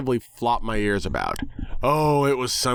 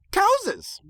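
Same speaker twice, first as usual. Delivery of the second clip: much higher cry of the word Cowses; gleeful pony shout. Acted. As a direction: squeal it like a delighted cartoon pony. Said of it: "exactly as she had before".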